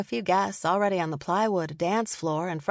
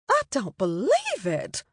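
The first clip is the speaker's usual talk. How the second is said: higher, slow indignant spit of words; spat out; 5 semitones higher, slower than usual. A narrator's reading. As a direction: sneer it out in disbelief. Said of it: "Mary Elizabeth spat".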